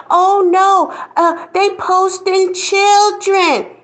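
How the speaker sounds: high, loud, slow mock gasp of outrage. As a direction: shriek like a scandalized churchgoer. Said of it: "wanna act like".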